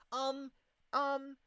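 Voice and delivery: high, taken-aback character voice; startled question. Acted. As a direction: ask it high-pitched, mildly shocked. Startled character voice in game dialogue.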